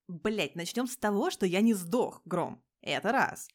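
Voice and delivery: loud, offended protest; loud wounded protest; indignant outburst. Acted. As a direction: snap back at the insult. Petya indignantly argues with Igor.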